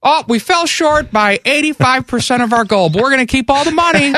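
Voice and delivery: high, put-on pledge drive voice; mock fundraiser plea. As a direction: play the greedy station host. Mock radio station fundraiser plea.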